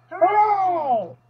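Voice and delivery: high, drawn-out hooray; celebratory cheer. Acted. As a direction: cheer with a long falling note. Group cheers the lizard's recovery.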